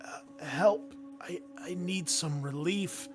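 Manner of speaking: weak, halting plea with rising pitch; hesitant, desperate voice of the sick sergeant; pleading for help. Acted. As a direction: stammer out a plea for relief. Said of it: "she's like".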